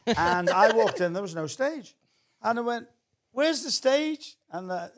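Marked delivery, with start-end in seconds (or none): 3.3-4.4 slow, high Welsh lilt; Welsh accent. Retold or imitated. Comedian retelling his arrival at a club, drawn-out Welsh accent. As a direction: stretch it out in a light Welsh accent. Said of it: "I always go into a Welsh accent".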